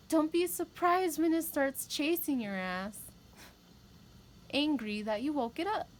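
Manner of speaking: half-joking warning, pushed up loud; emphatic warning. Real, not acted. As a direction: raise the voice to warn them off. Warning not to poke the bear.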